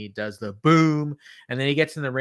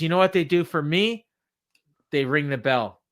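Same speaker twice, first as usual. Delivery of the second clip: wrestling promo; 3 semitones higher, 3 dB louder than usual. Retold or imitated. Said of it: "in my very best attempt to do an M J F promo".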